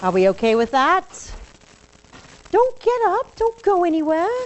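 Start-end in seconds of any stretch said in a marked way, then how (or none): 2.5-4.4 called out high over the room; calling out. Real, not acted. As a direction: call them back before they leave. Calling students back as class ends.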